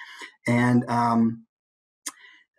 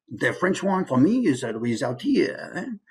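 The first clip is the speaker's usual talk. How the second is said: French accent from a pushed-out mouth posture; slow, demonstrated French accent; slower than usual. Shown as a demonstration. Teacher shows mouth posture for accents, French accent. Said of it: "If you adopt that mouth posture".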